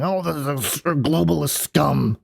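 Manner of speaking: half-hearted mock ranting, sputtered at no real volume; Alex Jones. Host badly imitates a ranter on globalists, mock flustered yelling held down. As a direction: imitate a flustered screamer without shouting, dragging out the last words. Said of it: "he's yelling and s-, screaming".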